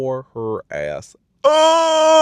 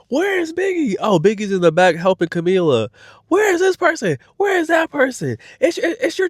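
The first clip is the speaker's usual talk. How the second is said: much higher frantic calling out; mock frantic yelling; 12 semitones higher than usual. Host mimicking Rolly calling for dancers, high and frantic. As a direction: shriek for missing dancers. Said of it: "She yelling and screaming".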